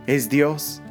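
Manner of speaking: normal talking voice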